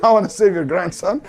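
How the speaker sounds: mock-innocent sarcasm with a chuckle; sarcastic. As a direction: toss it back as an amused, mocking question. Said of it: "because he's being sarcastic".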